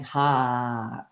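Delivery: long sighing "ha" as a demonstration; voiced breath release; exhaled ha. Shown as a demonstration. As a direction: breathe out on one extended "ha". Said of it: "just saying".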